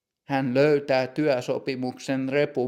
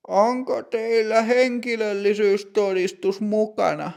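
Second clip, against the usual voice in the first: put-on higher, measured voice of a strict older clerk; stern bank clerk; 7 semitones higher than usual. Older bank clerk greeting customer Matti, stern and higher.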